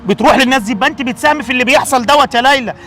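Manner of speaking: stern lecture. Acted. الأب يكمل التوبيخ.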